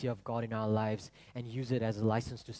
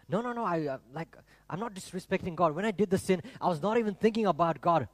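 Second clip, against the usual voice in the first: lightly acted, higher-pitched protest; protesting objector; 5 semitones higher, 3 dB louder than usual. Congregant defending himself to the preacher, protesting. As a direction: insist on your innocence, pitch raised.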